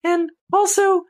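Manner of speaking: very high cutesy bear voice; Snuggle. Acted. Mascot bear selling dryer sheets to listeners, in a tiny high voice. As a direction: plug it like a squeaky advert mascot. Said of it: "Always talks like this".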